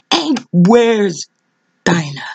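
falls to a whisper on the name; sudden whisper after a cry; whispered drop. Real, not acted. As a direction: drop to a breath on Dinah. Preacher drops to whisper.

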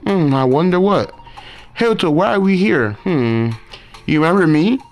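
mild hammed-up character reading; lightly voiced game characters. Voicing game dialogue characters.

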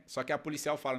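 ordinary talk, nothing marked

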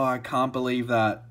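real disbelief, said out loud; stunned disbelief. Real, not acted. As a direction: still reeling from the pull. Stunned after the pull.

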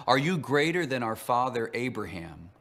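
a touch of mocking sarcasm; mild sarcastic challenge to Jesus. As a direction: lightly needle him with the question. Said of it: "asked sarcastically".

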